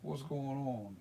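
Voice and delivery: casual Philadelphia greeting; lightly demonstrated Philly accent. Shown as a demonstration. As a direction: say it like a Philly local. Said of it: "That's Philadelphia".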